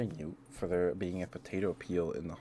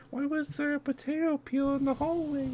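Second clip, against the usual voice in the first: incredulous; 6 dB louder than usual. Real, not acted. Bewildered by potato peel.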